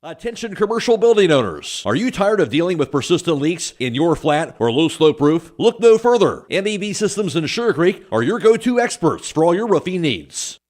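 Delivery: upbeat radio ad voice; ad read. Acted. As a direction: read it like a local radio spot. Roofing ad read.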